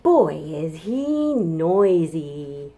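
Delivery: slow, drawn-out playful wonder; mock amazement. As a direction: marvel at the noisy dinosaur. Mock amazement after roar.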